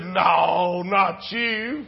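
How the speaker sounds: retold astonished denial; lightly played incredulous reply; mock disbelief. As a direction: act out amused disbelief. Man learns friend is a pastor.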